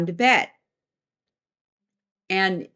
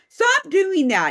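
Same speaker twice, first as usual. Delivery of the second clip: slow, high mock scolding; scolding spirit; 8 semitones higher, 3 dB louder, slower than usual. One unseen being scolds another, drawn-out high scolding. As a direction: draw out the complaint in a high voice. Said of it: "the other one going".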